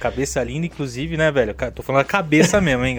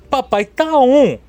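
swaggering boast; 8 semitones higher, slower than usual. Acted. Boastful catchphrase.

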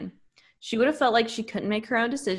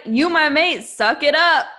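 mock bossy demand; 4 semitones higher, 5 dB louder than usual.

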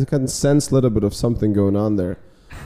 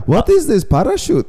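high-pitched baffled guy, half laughing; squeaky mock question through laughter; laughing mock quote; 12 semitones higher, 3 dB louder than usual. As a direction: act out a bewildered customer, cracking up. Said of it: "And the guy's like".

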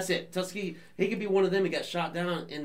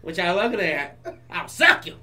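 put-on Southern accent; 2 semitones higher, 7 dB louder than usual. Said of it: "Rogue just is like".

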